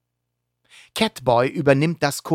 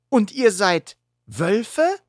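anxious; 9 semitones higher, slower than usual. Acted. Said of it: "fragt Gecko ängstlich".

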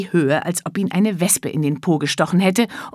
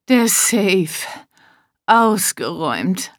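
stunned devastation; much slower than usual. Acted. Mister Hilarious stunned.

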